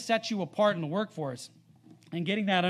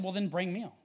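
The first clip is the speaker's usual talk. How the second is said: understated, even retelling of a calm reply. Retold or imitated. Preacher retelling how Elisha answered without reacting hastily, calmly. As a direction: say it evenly, without any reaction. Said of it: "He actually just very calmly said".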